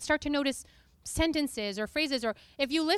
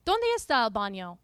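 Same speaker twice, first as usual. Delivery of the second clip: Spanish phrases. Shown as a demonstration. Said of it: "as easily as I can say".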